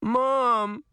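high, tearful plea; crying out. A narrator's reading. Daughter crying out to her mother, high tearful voice. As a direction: call for mom through tears. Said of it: "Allison cried".

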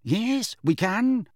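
high, affronted retort; indignant. A narrator's reading. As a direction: insist with wounded pride. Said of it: "said Missus Figg indignantly".

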